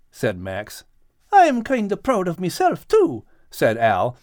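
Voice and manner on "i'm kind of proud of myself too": Al, spitting sand. A narrator's reading. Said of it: "spitting sand as he spoke".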